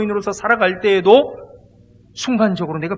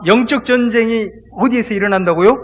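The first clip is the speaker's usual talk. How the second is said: usual speaking voice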